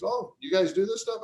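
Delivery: surprised fire marshal. Retold or imitated. Fire marshal surprised at sign company.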